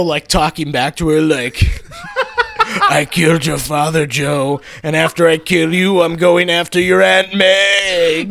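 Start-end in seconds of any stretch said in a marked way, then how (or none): 2.9-8.3 villain voice. Acted. Tornado villain taunting the hero.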